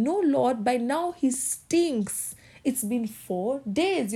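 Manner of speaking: high, slow pleading objection; protesting Martha. Acted. Martha objecting to Jesus at the tomb, high and slow. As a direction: plead against it, dragging the words.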